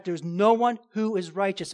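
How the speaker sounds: NO ONE stressed firmly; firm weight on NO ONE; emphatic. Shown as a demonstration. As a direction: lean on NO ONE. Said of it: "he's emphatic".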